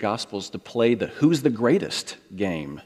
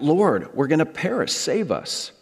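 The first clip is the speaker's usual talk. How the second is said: mock cry for help; 6 semitones higher than usual. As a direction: lightly act out the panicked disciples. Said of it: "they cry out".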